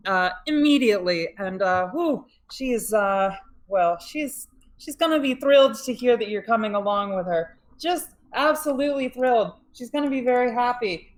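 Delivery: jittery nervous officer. Acted. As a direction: babble nervously. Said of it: "clearly extremely nervous".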